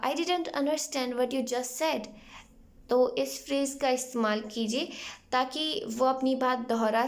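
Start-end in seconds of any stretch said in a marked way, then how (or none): 0.0-2.1 slow, evenly spaced English words; slow model phrase. Shown as a demonstration. Teacher slowly modelling the phrase for students. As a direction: say it slowly for learners. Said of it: "तो आप उनसे बोल सकते हैं".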